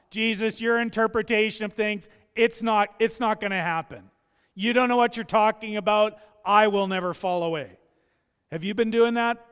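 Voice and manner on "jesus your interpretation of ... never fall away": loud, insistent denial; defiant protest. Acted. Peter loudly brushing off Jesus' warning, defiant. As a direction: push back hard, sure of yourself.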